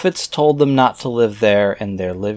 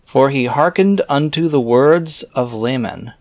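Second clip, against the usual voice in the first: raised, measured reading voice; scripture reading; 3 semitones higher than usual. Acted. Reader reciting scripture verses aloud in a solemn reading voice. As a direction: read the old verses out with solemn weight.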